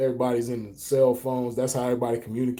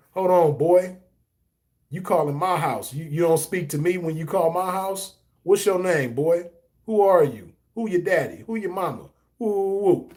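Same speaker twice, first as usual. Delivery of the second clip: mock-stern father grilling a boy, a bit higher; stern dad interrogation; 4 semitones higher than usual. Father grilling a boy who called for his daughter, mock-stern. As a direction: bark questions at the caller like a protective dad. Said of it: "I'm drilling his ass".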